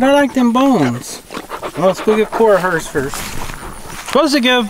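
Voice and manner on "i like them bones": slow, savoring dog voice on "I like them bones"; voicing the dog, drawn out. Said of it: "He said".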